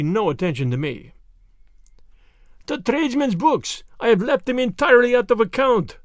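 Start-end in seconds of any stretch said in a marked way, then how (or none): 2.7-6.0 excited realization. A narrator's reading.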